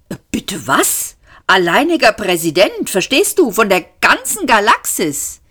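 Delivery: lightly voiced young president, insistent; lightly voiced Seyfort. A narrator's reading. Zaphod insists, affronted.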